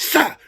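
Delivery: short hissed bullet sound; quick whizzing sound effect; imitated bullet whiz. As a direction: mimic a shot zipping by. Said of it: "The first one whizzed".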